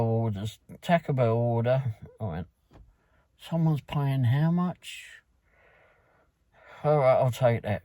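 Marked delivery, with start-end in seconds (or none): 3.4-5.2 incredulous surprise. Retold or imitated. Driver reacting to a big delivery fee.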